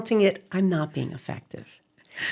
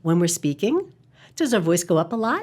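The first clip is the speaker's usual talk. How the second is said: "speaking" and "a lot" lifted like questions; uptalk. Shown as a demonstration. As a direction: voice going up at each phrase end. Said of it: "do we have the uptalk".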